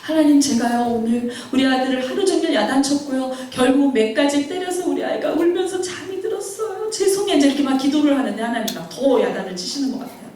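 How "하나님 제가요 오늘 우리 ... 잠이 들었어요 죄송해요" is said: pleading confession rising in pitch; re-enacted contrite plea; repentant prayer. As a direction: confess to God, voice climbing into remorse. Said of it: "하나님 앞에 이제 회개하기 시작했어요".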